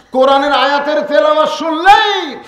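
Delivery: high, shouted sermon proclamation; loud, impassioned preaching; full-force preaching. Acted. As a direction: thunder it out to the crowd.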